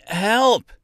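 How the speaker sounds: high-pitched cry for help; narrator's restrained scream. A narrator's reading. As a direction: call out in panic, voice leaping up. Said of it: "he screamed out".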